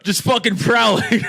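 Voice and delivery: slow, laughing drawl into a laugh. Real, not acted. Joking about a cute animal, laughing. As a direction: crack up mid-joke.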